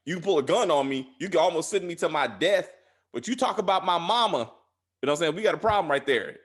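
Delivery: loud tough threat. Retold or imitated. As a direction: raise the voice, warn hard. Voicing Ghost's angry threat.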